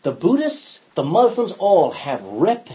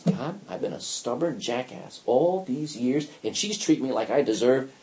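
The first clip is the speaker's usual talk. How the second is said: honest confession; 3 semitones lower, 5 dB quieter than usual. Shown as a demonstration. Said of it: "just tell him what the real problem is".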